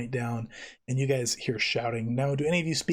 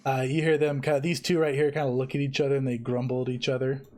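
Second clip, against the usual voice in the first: ordinary talk, nothing marked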